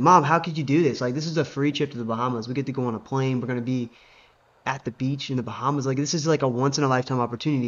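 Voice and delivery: mildly indignant retold protest; upset daughter. Wife protesting to her mom over the cancelled trip, mildly upset. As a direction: plead in disbelief, imitating an upset daughter. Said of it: "she was just so upset".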